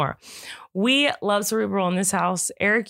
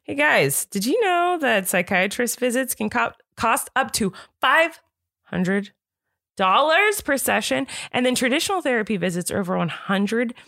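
upbeat sponsor read, stretching the prices; 3 semitones higher than usual. Acted. Podcaster starts a sponsor read for her audience with an upbeat ad voice. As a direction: sell it to the listeners.

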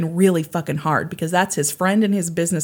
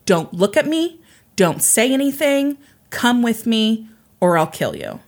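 higher-pitched mock gunman's threat; retold threat; 4 semitones higher than usual. Podcaster quoting a gunman to his captive, retold threat. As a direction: voice the intruder's orders in separate, pointed phrases.

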